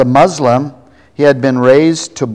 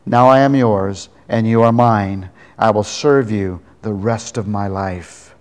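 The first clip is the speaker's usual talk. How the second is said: prayer. Acted. Leads the sinner's prayer.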